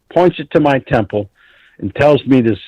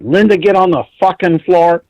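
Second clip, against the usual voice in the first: yelled order, pitched high; barking at her to get down; urgent shout; 5 semitones higher than usual. Retold or imitated. Retelling himself yelling at the G I Jane to get down.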